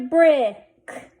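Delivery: brick with the vowel held before the k; blended slowly. Shown as a demonstration. Teacher sounding out a word for readers, blended slowly. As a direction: stretch brick out, then close on k. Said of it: "Let's read this".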